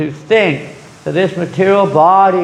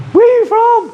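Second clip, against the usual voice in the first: eager question; 5 dB louder than usual. Retold or imitated. Expat meets fellow Malaysian abroad.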